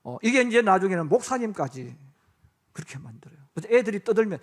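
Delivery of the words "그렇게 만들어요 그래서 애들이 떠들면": usual speaking voice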